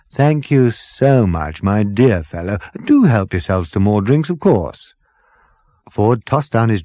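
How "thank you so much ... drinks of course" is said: blissful captain. Acted. Captain thanking Arthur for hot bathwater, blissful. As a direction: purr gratitude from the bath.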